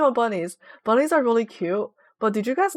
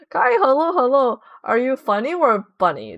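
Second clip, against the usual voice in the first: reading chat; 3 dB louder than usual. Retold or imitated. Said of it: "reading chat greeting".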